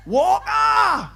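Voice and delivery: loud high shout from the crowd; shouted name. Real, not acted. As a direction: yell the place name proudly. Audience shouting hometown.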